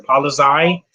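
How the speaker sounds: Polizei said the German way, ending like "tsai"; German pronunciation. Retold or imitated. Quoting a film's German police, German pronunciation of Polizei. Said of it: "that's how they say police in German".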